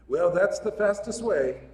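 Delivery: put-on a modest stab at an Irish accent. Old Irishman Paddy answers a lost tourist in a light Irish accent. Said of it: "I don't know if my Irish accent's any good".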